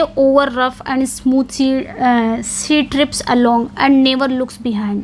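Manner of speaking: slow, careful poem reading; slow recitation. Shown as a demonstration. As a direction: read the poem lines out very slowly.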